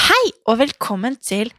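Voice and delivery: opening line in a north Norwegian accent. Shown as a demonstration. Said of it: "kanskje jeg skal snakke sånn her hele episoden".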